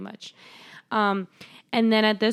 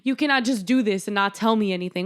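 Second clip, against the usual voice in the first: upset mom; 2 semitones higher, faster than usual. Retold or imitated.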